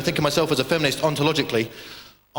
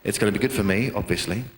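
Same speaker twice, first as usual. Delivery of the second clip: self-justifying inner voice; 6 semitones lower than usual. Retold or imitated. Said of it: "I was thinking, you know".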